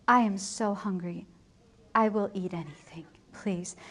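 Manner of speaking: low, subdued mock plea; hungry begging. Hungry wife begging servant for food, understated pleading. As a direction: beg faintly, trailing into a soft please. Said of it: "starts with Catherine begging Grumio".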